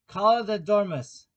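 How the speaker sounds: high, loud shriek. A narrator's reading. King in court calls for the dormouse, shrieking. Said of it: "the king shrieked out".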